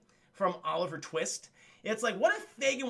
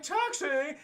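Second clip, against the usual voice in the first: mock hail for a cab; calling out; 5 semitones higher than usual. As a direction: sing out higher, as if hailing. Retold woman hailing a cab.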